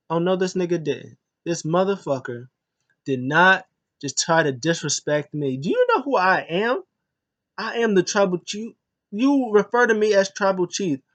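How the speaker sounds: the tribal chief insulted and demanding respect; imitating an offended leader; mock outrage. Roman snaps over disrespect.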